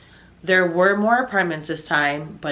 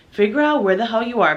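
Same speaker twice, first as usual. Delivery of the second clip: raised, higher voice, fed up; angry demand; 5 semitones higher, 4 dB louder, faster than usual. Retold or imitated. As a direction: snap it at him down the phone, loud and high. Angry phone call to boyfriend.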